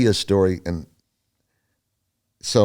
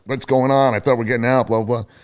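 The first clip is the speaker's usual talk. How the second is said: a man flipping out in a jail cell, pleading; agitated retold shout; panicked outburst; 5 semitones higher than usual. Flipping out, pulling on bars.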